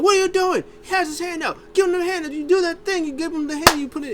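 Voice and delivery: high, loud panicked urging; frantic Heyman. Retold or imitated. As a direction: hiss him into handing it over fast.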